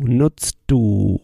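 "nutzt du" said again as one linked unit. Shown as a demonstration. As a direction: glide from the T of "nutzt" straight into "du". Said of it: "You see how I almost go from nutzt du".

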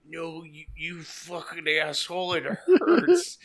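breaking into laughter mid-complaint, pitch climbing high; laughing high on morphine. Retold or imitated. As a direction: giggle through it like the drugs just kicked in.

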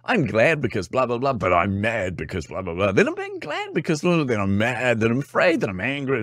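mocking a moody teammate; erratic teammate. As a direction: rattle through the moods. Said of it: "one of the team members who was like".

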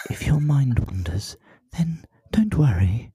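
slow, breathy meditation-app whisper. Shown as a demonstration. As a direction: soothe like a mindfulness app, slowly. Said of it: "such a meditation on an app voice".

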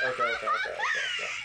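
high giggling okay okay; laughing it off. Real, not acted. Laughing okays.

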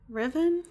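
short "i" in "Riven", tried as a question; unsure pronunciation. Shown as a demonstration. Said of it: "I still can't remember".

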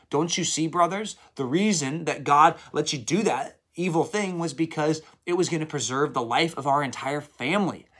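a hint of Joseph pleading with his brothers; Joseph revealing himself. Preacher voices Joseph's reassurance.

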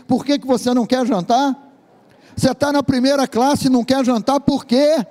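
high, incredulous questioning; the seat neighbour can't believe it; astonished neighbour. Acted. Vizinho de assento pergunta espantado. (vizinho incrédulo, voz bem aguda)

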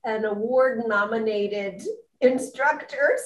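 said with a smile in the voice; friendly, smiling delivery; audible smile. Real, not acted. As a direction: smile warmly through the praise. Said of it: "hear the smile in my voice".

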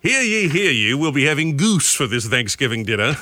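lightly voiced town crier proclaiming. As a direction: announce it like an old-time crier. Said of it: "Like we were, uh, the Cratchits from A Christmas Carol".

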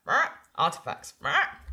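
creature mimicking a wizard; squawk, then parrot the wizard's word; lightly voiced mimic creature; Weirding. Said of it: "almost like the wizard Weirding's voice".

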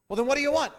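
a husband at his wits' end shouting; exasperated husband. Retold or imitated.

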